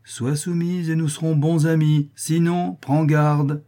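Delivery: high-pitched, insistent threat; coax, then warn with force; menacing. A narrator's reading. Master threatens servant girl.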